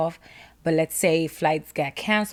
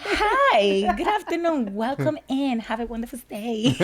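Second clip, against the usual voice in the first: bright, higher customer-service greeting; sudden sweet welcome; 3 semitones higher than usual. Retold or imitated. Lounge agent suddenly greets the platinum member sweetly. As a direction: switch to polite host voice. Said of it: "Tune changes".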